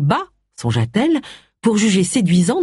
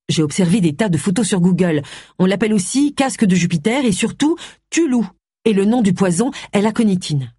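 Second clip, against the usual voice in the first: higher-pitched, knowing explanation; lightly voiced assured Agatha; 5 semitones higher than usual. Agatha explaining the plant to Charles, lightly assured. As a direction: show your research in a raised pitch.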